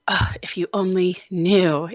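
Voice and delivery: breathy whispered comeback; whispered retort. Retold or imitated. Mom answering judgy ladies, whispered. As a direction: mutter it under your breath. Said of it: "I was like".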